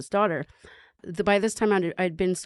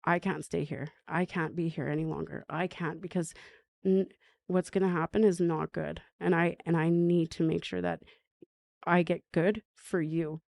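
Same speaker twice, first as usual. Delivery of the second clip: gentle. Retold or imitated. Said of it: "but I said".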